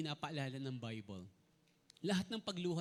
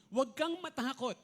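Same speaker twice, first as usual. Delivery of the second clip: louder proclamation of Huwag kang matakot; preacher booming the angel's comfort; proclaiming angel; 5 semitones higher, 8 dB louder than usual. Acted. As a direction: call it out as the angel's command. Angel's proclamation read aloud.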